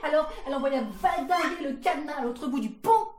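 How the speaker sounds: fast, loud, high storytelling; excited narration. A narrator's reading. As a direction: race through the action with gusto. Padlock sent flying, excited telling. (récit emballé, rapide et fort)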